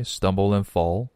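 "stumble and fall" with the d of "and" left silent; dropped D. Shown as a demonstration. English teacher demonstrating the line for learners, silent d in "and". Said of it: "然后的不读出来".

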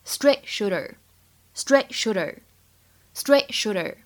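slow "straight shooter" with the t of "straight" held unreleased; "straight shooter" repeated slowly, no burst on the first word's final t. Shown as a demonstration. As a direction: stop the t in "straight" without a puff, then "shooter". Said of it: "完全失去爆破".

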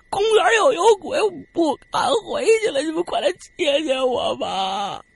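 scared crying plea. Retold or imitated. Lost friend begs on the phone to be picked up, high tearful plea. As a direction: whimper and plead to be rescued, voice high. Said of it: "大勋子就说".

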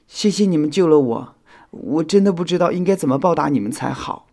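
high-pitched, earnest thanks; full of gratitude. A narrator's reading. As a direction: thank your rescuers wholeheartedly. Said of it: "火影充满了感激". (充满感激地道谢)

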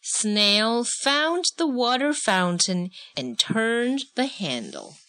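slow, measured picture-book narration; story narration. A narrator's reading. Adult reading a snail story with a child, measured narration. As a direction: read it clearly to a child, word by word.

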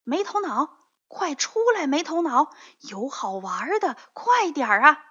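high, loud call through the window; calling from outside. Acted. Friend calls Meitounao outside the window, high eager shouting. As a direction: shout to lure a friend out to play. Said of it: "窗外有人叫他".

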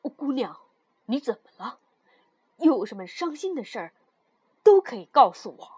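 kindly, concerned king; comforting. Acted. King hurrying to comfort the weeping girl, kindly. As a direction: console someone who has started crying. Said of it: "好心的国王连忙安慰多尔蒂娜".

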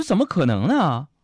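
high, loud mock-passionate protest; urgent explanation. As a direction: overplay a devoted boyfriend's denial. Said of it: "我就赶紧解释".

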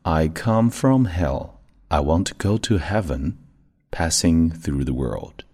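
slow, careful read-along; steady slow model reading; slow practice read. Shown as a demonstration. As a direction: read it slowly for the class. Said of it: "One more time".

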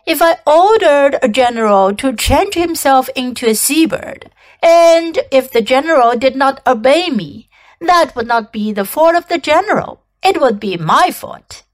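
lightly voiced commanding king; a hint of a regal monarch giving orders.

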